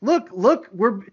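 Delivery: high mock promotional pitch; lightly acted attention-grabbing promo; showing-off promo voice. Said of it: "all the promotional images had him like".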